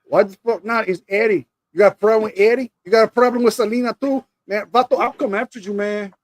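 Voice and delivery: put-on a tough guy in a light Mexican accent; Eddie Guerrero impression. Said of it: "Why do you sound like Eddie Guerrero?".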